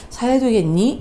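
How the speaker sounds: mock judgmental question; judging tone. Shown as a demonstration. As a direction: let "사야 되겠니?" sound faintly disapproving. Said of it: "비판하거나 판단하는 뉘앙스가 전해지면".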